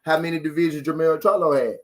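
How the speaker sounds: deliberate slow repeat for emphasis; said again slowly. Shown as a demonstration. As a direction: spell the question out slowly. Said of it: "I wanna say it again slow".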